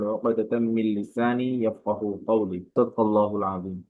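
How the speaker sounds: slow, measured Arabic recitation; unhurried devotional recitation; Quran recitation. Real, not acted. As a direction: recite the opening prayers slowly and evenly. Opening Arabic recitation before the lesson.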